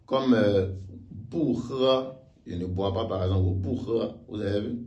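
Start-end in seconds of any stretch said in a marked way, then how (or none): 1.1-2.0 "bu he" with falling "bu", level "he"; unchanged bu. Shown as a demonstration. Teacher shows bu reste tel, falling "bu" in "bu he". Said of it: "Le bu reste tel". 3.5-4.1 "bu he" with falling "bu", level "he"; unchanged bu. Shown as a demonstration. Teacher shows bu reste tel, falling "bu" in "bu he". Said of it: "Le bu reste tel".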